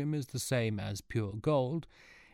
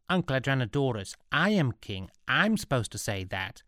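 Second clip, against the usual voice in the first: lightly voiced boy king, a touch whiny; a hint of a spoilt young king insisting; petulant boy king; 4 semitones higher than usual. Spoilt boy king reminds his uncle, lightly voiced petulant.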